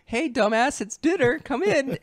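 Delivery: high-pitched mock grandma yell; imitated high, loud call to come inside. Grandma calling the kid to dinner.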